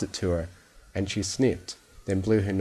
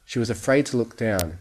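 plain reading voice

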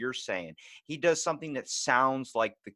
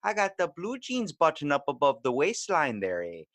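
hammed-up Canadian accent, higher; 6 semitones higher than usual. Mocking a Midwestern mom on TV in a Canadian accent. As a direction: play a folksy Canadian mom. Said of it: "make 'em sound Canadian".

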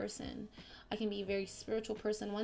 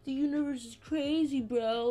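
excited; 4 semitones higher, 5 dB louder than usual. Real, not acted. Excited outburst quoting herself.

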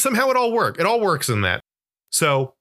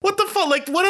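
incredulous outburst; 11 semitones higher, slower than usual. Retold or imitated. Outraged reaction to movie scene.

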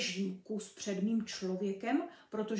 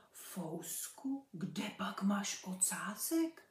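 hushed question; 5 dB quieter, slower than usual. Acted. Kitten quietly asks the dog.

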